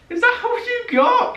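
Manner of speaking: high, slow laughing dare; laughing taunt. Real, not acted. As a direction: tease them through a laugh. Coach taunting louder, laughing.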